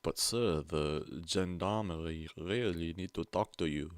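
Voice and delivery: loud, slow mock French accent; a lightly hammed French policeman pleading. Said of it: "I don't know why I've got a French accent".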